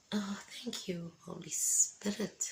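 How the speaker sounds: slow, hushed thanks to the Holy Spirit; whispered thanks. Real, not acted. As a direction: murmur it slowly as a prayer. Spontaneous prayer.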